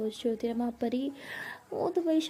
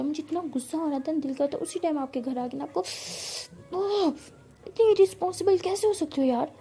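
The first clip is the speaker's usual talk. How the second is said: higher, louder, building to a furious outburst; angry scolding; 3 semitones higher, 3 dB louder than usual. Acted. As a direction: scold her teacher for not texting back. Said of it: "जाते ही Ishani ma'am पे गुस्सा करना". (गुस्से में डांटती हुई ऊँची आवाज़)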